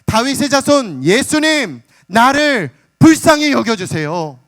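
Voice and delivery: slow, high, loud pleading cry to Jesus; a blind beggar crying out loud for mercy; loud desperate cry. Retold or imitated. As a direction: cry out slowly, begging at the top of your voice. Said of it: "큰 소리로 외쳐대기 시작하는 거예요".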